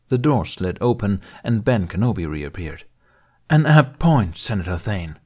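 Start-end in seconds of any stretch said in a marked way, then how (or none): 3.5-5.2 sweet tone gone sour with contempt; contemptuous ire. Acted. Kenobi answering Thane with contemptuous ire. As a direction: let the honey turn to scorn. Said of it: "vocal honey now fermented into contemptuous ire".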